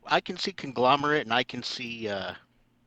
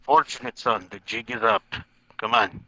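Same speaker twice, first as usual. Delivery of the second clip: loud call; 3 dB louder than usual. Acted. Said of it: "in a loud enough voice".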